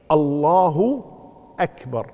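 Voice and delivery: الله without overlong stretch, then a separate, clear أكبر; correct takbir. Shown as a demonstration. Teacher showing students the correct form, الله then a clear short أكبر. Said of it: "لكن الصحيح".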